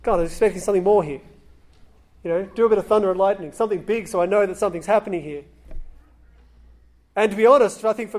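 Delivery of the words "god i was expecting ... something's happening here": rattled off quickly, mock impatient; impatient rush. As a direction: hurry it out like a let-down believer. Impatient demand on God, retold.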